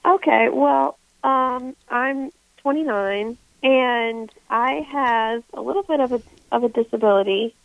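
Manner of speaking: stuffy, under-the-weather voice; talking while sick with a cold. Real, not acted. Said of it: "so I know my voice sounds a little weird".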